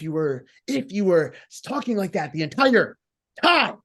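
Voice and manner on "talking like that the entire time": put-on promo voice. Shown as a demonstration. Coach demonstrating a held promo voice to a wrestler, put-on voice. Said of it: "it's a voice and we can all hear the voice".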